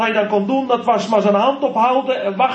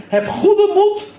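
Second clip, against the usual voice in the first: encouraging; 9 semitones higher, slower than usual. Acted. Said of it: "Dan krijgt hij een bemoediging".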